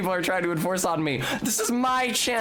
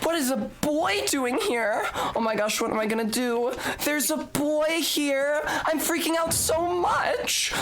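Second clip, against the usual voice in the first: reading redeem text; 7 semitones higher than usual. Acted. Rereading the boy smell green text for chat, high and giddy. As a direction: squeal it like a boy-crazy girl. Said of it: "If you're a boy and you're reading this".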